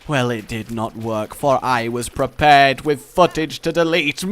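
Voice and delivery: mock villain gloating. Player boasting he was prepared, mock-villainous. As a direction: gloat theatrically, building toward a laugh.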